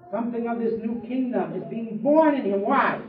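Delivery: usual speaking voice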